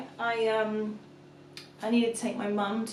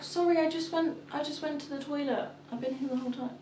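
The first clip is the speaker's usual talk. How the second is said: higher-pitched placating voice; placating mum; 6 semitones higher than usual. Retold or imitated. Mum excusing herself to her toddler, placating higher voice. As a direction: act out soothing a small child.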